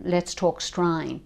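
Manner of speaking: slow, demonstrated Australian "strine"; a light Australian accent, drawn out. Shown as a demonstration. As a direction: put on a slow Australian twang. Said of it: "Or Australian".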